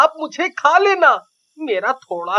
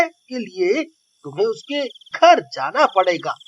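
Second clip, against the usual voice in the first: nervous trickster pleading with a witch, stammering at first; डरा हुआ चिल्ली; 3 semitones lower than usual. Acted. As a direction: play Chilli coaxing the witch with emphatic key words. (घबराया, मनाता हुआ चिल्ली)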